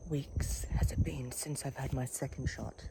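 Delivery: whispered to herself. Real, not acted. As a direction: work it out under your breath. Muttered question to herself.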